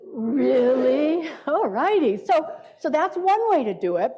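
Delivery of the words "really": amazed really. Shown as a demonstration. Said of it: "You guys wanna say it with me".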